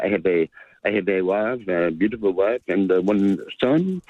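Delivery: mock French footballer voice; halting, hammed-up French accent; imitated French accent. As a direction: retell it in a put-on French accent. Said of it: "a French guy come over from".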